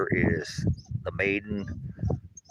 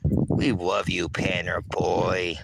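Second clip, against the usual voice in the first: tender pet talk; much slower than usual. Real, not acted. Owner lovingly telling the dog he is loved, slow tender croon.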